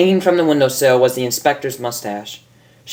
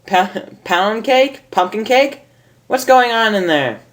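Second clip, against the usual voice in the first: mother calling out; 8 semitones higher than usual. Acted. Miss Cake calling from outside.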